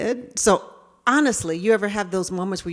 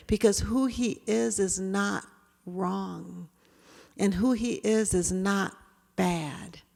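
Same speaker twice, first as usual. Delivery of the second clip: earnest plea; 5 dB quieter, slower than usual. Real, not acted. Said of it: "earnest plea".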